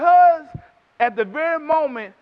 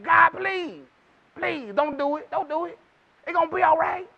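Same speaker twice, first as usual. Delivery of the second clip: begging Moses; 3 semitones higher than usual. Retold or imitated. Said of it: "Moses had to beg".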